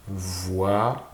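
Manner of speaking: "voiture" broken into "voi", pause, "ture"; split into syllables. Shown as a demonstration. Teacher asking for the syllable count, "voiture" in two separated syllables. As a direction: say "voiture" slowly, one syllable at a time. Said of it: "Combien de syllabes au mot voiture?".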